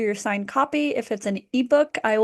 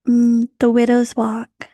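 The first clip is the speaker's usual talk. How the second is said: whispered title; 6 dB louder, slower than usual. Acted. Announces story title before reading.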